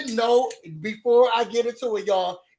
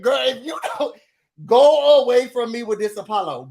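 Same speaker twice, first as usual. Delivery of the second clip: louder, sassy brush-off; mock telling-off; 2 semitones higher, 5 dB louder than usual. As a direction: shoo her away with attitude. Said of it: "I said".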